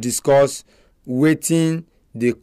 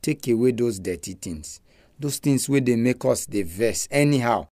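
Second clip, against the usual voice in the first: praying; 2 semitones lower than usual. Real, not acted. Leads a prayer.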